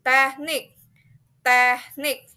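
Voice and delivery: "teknik" loud and drawn out, meant to lift on NIK. Shown as a demonstration. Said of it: "flat and then higher sound".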